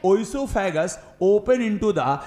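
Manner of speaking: very slow, word by word dictation; teacher dictating notes, each word spaced out; dictation pace. Shown as a demonstration. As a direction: spell it out slowly for students to write down.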